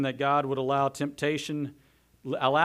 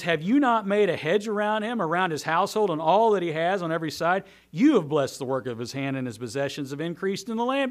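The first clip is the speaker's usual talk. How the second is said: loud, insistent accusation; adamant Satan; 3 semitones higher, 7 dB louder than usual. Acted. Satan accusing the Lord of protecting Job, loud and adamant. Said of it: "Adamant, sarcastic".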